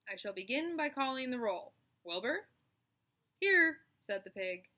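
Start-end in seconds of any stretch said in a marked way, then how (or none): 0.1-2.5 crisp, raised spider voice, a bit louder; spider calling roll. Acted. Charlotte calls the roll at the barn meeting, crisp. 3.4-3.8 high, loud squeal of "here"; eager pig. Acted. Wilbur answers Charlotte's roll call, high and eager.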